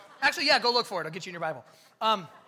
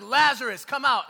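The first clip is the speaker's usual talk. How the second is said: loud, raised command; forceful high shout; yelling; 4 semitones higher, 13 dB louder than usual. Acted. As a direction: yell it out as an order into a tomb. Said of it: "he yells, and he's like".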